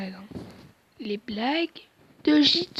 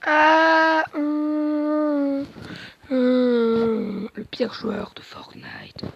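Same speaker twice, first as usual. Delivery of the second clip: robot voice, droning and monotone; half robot voice; much slower than usual. Pretend. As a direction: talk like a robot, dead flat. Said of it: "j'ai fait une voix de robot". (voix de robot)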